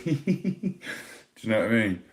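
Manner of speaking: high, giggly mock girlfriend voice, squeaky on the first words; imitating his giggly girlfriend. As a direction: tease her by copying her high giggle. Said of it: "she just laughs and just looks at you and goes".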